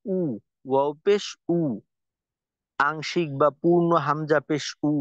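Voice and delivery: উ said like a hamza pesh, a glottal catch before it; wrong u. Shown as a demonstration. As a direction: mimic the error, উ with a stop. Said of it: "আবার অনেকেই বলে".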